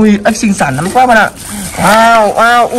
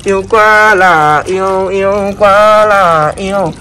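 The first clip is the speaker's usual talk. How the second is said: cooing; 3 semitones lower, much slower than usual. Real, not acted. Cooing over toy fish.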